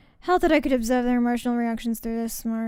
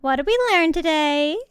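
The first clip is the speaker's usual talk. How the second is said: raised, rising quiz tone; teacherly question; 4 semitones higher, 6 dB louder than usual. Real, not acted. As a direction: ask the class brightly.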